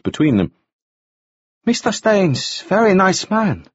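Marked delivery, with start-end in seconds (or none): 1.7-3.7 high, pleasant character voice. A narrator's reading. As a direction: offer it agreeably in a high voice. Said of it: "said Arsuk pleasantly".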